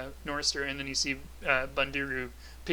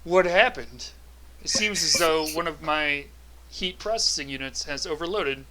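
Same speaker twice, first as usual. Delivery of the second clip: robot voice; 2 semitones higher, 4 dB louder than usual. Acted. Automaton reports overload.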